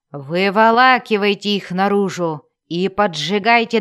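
thundering command, loud; booming warrior king. Acted. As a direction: roar the order to burn. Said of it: "загремел голос короля варваров". (громовой голос короля варваров)

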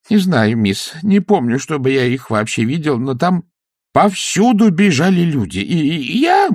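high, anxious peasant voice; frightened villager gabbling; nervous weaver. Acted. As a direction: babble the story out scared. Weaver answers.

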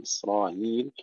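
إسرائيل with hamza softened, gliding like "isra-hil"; eased hamza. Shown as a demonstration. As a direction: say إسرائيل without a hard catch before the ee. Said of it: "تسهيل الهمزة".

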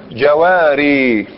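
جواري said slowly, each sound drawn out; slow model word. Shown as a demonstration. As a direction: spell out جواري slowly for the class. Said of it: "بالسيف عليك تقول جواري". (نطق بطيء لكلمة جواري)

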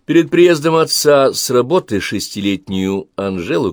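plain reading voice

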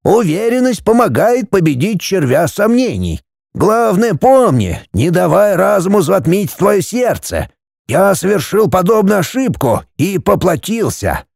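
a hint of a mystic old man explaining; old Kofler's voice. Kofler gives advice.

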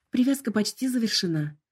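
sugary, cloying assistant tone; sickly sweet voice. Acted. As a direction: purr it with overdone sweetness. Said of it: "до приторности милым голосом".

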